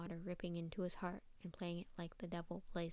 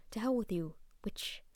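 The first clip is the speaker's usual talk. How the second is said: growling. Acted. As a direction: snarl it out at him. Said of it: "the cat said, growling".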